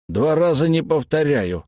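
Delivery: icy, clipped warning; cold fury. Acted. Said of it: "холодно ответил тот". (холодная ярость)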